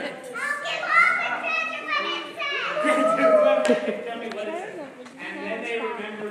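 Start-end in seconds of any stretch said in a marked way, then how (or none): 0.0-4.7 high, loud pleading offer; desperate king. Acted. King offering treasure to any reader, high and pleading. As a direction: beg like a frantic king.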